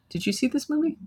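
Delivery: high, eager and urgent; excited. Real, not acted. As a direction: gush about the movie. Excited movie recommendation.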